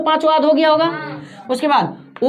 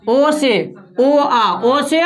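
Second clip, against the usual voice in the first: slow demo; much slower than usual. Shown as a demonstration. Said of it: "यहाँ देखो कैसे याद रखेंगे".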